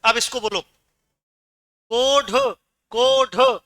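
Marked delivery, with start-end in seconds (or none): 1.9-3.6 कोढ़ with a hard aspirated retroflex ḍh stop. Shown as a demonstration. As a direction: say कोढ़ as "ko-ḍh", no flap. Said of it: "उच्चारण में फर्क आया".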